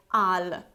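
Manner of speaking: "al" with a full spelled-out vowel, the way learners say it; wrong "al". Shown as a demonstration. Teacher demonstrating the mistake to avoid. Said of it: "we never pronounce this ending like".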